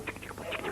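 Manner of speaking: soft ticking of little hooves; imitated hoofbeats. Comic telling a horse story, imitated soft hoofbeats. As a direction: tick softly like trotting feet.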